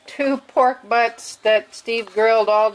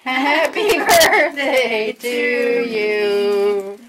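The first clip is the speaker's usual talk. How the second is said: laughing through the song; 4 dB louder, much slower than usual. Real, not acted. Singing while laughing.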